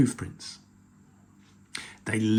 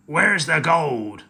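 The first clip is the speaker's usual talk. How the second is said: shouted; 4 semitones higher, 6 dB louder, slower than usual. Acted. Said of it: "shouted Hank Chief".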